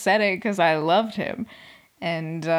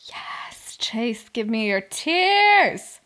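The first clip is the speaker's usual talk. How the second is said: mock gleeful demand; 4 dB louder, much slower than usual.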